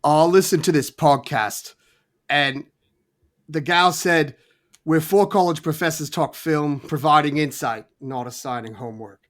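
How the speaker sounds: put-on shaky London accent drifting into Australian; attempted London accent. Quoting a podcast intro as Idris Elba, attempted London accent. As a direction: have a go at a British accent, landing near Australian. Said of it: "I don't really know how to do, like, a, a London accent".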